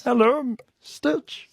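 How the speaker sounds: bad Stitch voice. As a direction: squeeze out the Stitch name like a tiny alien. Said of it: "From Lilo and Stitch".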